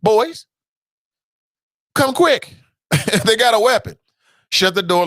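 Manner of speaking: high, loud call for the police; mock alarmed call. Homeowner calling cops on a Karen, loud mock alarm. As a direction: yell for the cops in mock panic. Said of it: "I looked outside the door like".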